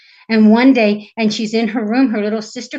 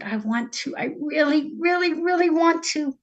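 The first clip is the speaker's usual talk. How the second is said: lightly voiced godmother, pitched up; earnest fairy godmother; 6 semitones higher than usual. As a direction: lift the pitch on a sincere wish. Godmother reluctant yet willing.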